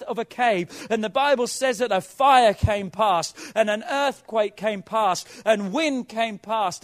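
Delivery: loud, urgent pulpit exhortation; impassioned preaching. Real, not acted. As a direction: preach it out with force. Preaching at full force.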